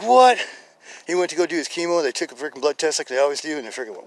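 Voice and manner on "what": loud, high "what?"; astonished. Retold or imitated. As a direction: react in retold disbelief to huge news. His astonished reply, retold.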